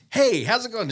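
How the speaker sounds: bright, high friendly hello; cheery greeting. Retold or imitated. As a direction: perk up a tired cashier. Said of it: "I'm like".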